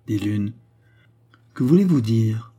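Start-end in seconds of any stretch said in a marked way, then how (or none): 1.5-2.5 quick, pressing question; asking briskly. A narrator's reading. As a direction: press him for an answer, a bit louder. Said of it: "demandai-je vivement". (question vive et pressante)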